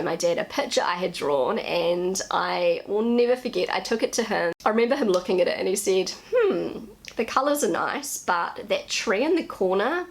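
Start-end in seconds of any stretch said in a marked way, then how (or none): 6.3-10.1 higher-pitched appraising tone, then the verdict; critical dad. Retold or imitated. Dad judging his child's drawing, frank critique. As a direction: imitate a dad weighing up a drawing.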